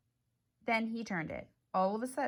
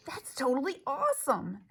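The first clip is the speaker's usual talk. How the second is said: excited shout; 5 semitones higher than usual. Acted. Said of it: "Edison shouted".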